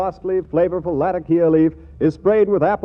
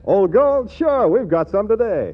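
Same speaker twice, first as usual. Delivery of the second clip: cheerful dealer; 3 semitones higher than usual. Acted. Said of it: "till he says".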